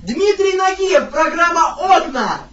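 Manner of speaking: slow, loud showman introduction; TV host announcement. Pretend. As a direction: boom it like a presenter. Repeats announcement to deaf granny. (торжественно и громко, как ведущий)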